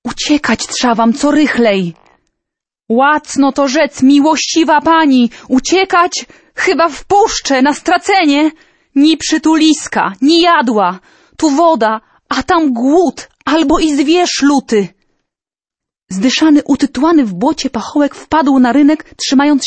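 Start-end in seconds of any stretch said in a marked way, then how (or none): 2.9-14.9 raised, worried townsman voice, partly slowed; a burgher explaining there is nowhere to flee, higher and worried; anxious burgher pleading. Acted. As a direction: plead hopelessly with the princess. Burgher answers princess in fear.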